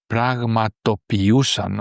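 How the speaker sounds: πραγματοποιούσαν drawn out slowly, syllable by syllable; careful pronunciation. Shown as a demonstration. Teacher rereading a difficult word for learners, πραγματοποιούσαν slow and careful. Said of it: "I read it again because it's a little difficult".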